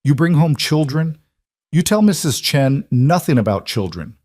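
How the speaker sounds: lightly accented Chinese housekeeper, mock scolding. A narrator's reading. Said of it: "her English flavored with an accent".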